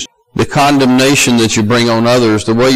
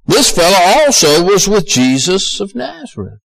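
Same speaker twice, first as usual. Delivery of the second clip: higher-pitched pointed accusation; raised-pitch voice of an accuser; accusing; 6 semitones higher than usual. Acted. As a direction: point him out to the bystanders. Girl publicly accuses Peter, quoted.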